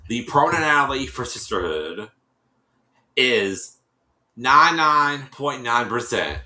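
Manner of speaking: slow, suspenseful result announcement; dramatic reveal. Retold or imitated. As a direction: pause for suspense, then declare it. Reads out DNA result as a reveal.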